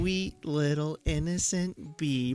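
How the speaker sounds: slow, soft cooing imitation; drawn-out, hushed mock sweetness; mock tenderness. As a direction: tease a friend by doting softly on a tiny creature. Mocking friend's tenderness for bee.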